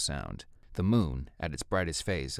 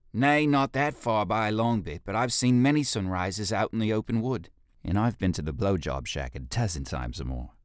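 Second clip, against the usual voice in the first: a lightly voiced rough ape, louder and pleased with himself; cheeky, boastful reply to his leader; cheeky ape guard; 5 semitones higher, 5 dB louder than usual. Fekis answers cheekily.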